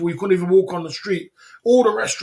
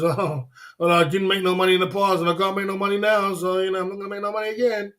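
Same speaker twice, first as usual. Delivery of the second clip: hammed-up whiny loser voice, a touch faster at the end; mocking loser; 2 semitones higher than usual. Mocking the quitter he lectures, in a lightly put-on whine. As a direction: sneer at the quitter as you mimic him. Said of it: "A loser's mindset says".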